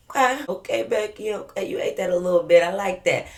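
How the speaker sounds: sarcastic praise. Retold or imitated. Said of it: "So I'm like".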